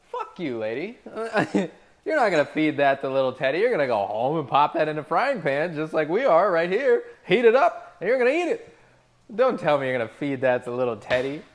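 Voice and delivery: loud, fast furious tirade; angry rant. Acted. Server ranting at the greedy customer, loud and furious. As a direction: let the anger boil over at her.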